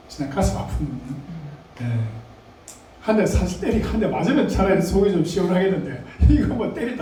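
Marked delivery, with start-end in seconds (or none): 3.0-7.0 laughing. Real, not acted. Laughing at Peter deserving a punch.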